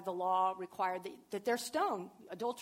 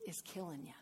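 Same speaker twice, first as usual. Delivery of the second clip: tender; 2 semitones lower, 5 dB quieter, slower than usual. Retold or imitated. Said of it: "what he's saying to her is".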